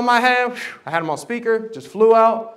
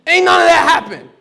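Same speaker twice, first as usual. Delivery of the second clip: much higher, louder through laughter; laughing; 9 semitones higher, 7 dB louder than usual. Real, not acted. Telling the church, laughing loudly. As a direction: laugh off the movie fantasy. Mocking movie-style heroics.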